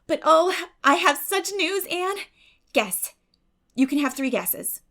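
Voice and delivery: can hardly hold the news in; excited girl teasing her friend; bursting with news. Acted.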